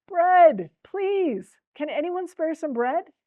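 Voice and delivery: high pleading call, loud at the start; beggar crying out. A narrator's reading. Poor beggar calling up to windows for food, loud plea. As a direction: shout the first word, then plead on a high pitch. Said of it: "the beggar cried out again".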